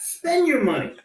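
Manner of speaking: laughing through the punchline. Retold or imitated. Salesman cracking up at his own line to the buyer, laughing. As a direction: let the laugh break into the words.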